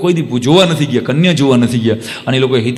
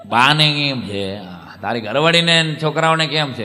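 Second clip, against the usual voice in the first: put-on old uncle on phone; 3 semitones lower, 4 dB quieter than usual. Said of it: "આમ, આમ રાખીને".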